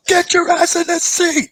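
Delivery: high, loud barked order; soldier voice. Acted. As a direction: snap the order at him. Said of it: "He goes".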